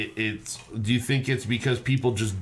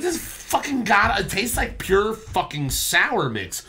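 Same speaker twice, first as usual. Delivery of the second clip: mock disgust; 9 semitones higher, slower than usual. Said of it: "I'm like".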